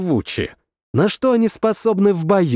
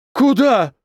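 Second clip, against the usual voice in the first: horrified question; 8 semitones higher than usual. Acted. Everyone stares in horror.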